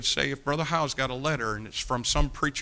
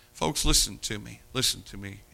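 earnest plea; 4 semitones lower than usual. Acted. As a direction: lean in close and plead. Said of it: "repeated plea".

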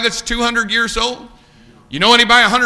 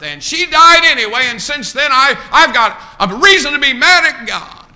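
higher-pitched imitation of a bitter man; acted grievance; 5 semitones higher, 4 dB louder than usual. Preacher voicing a man mad at God over grandma, acted grievance. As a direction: protest it, voicing his complaint. Acts out angry man's grievance.

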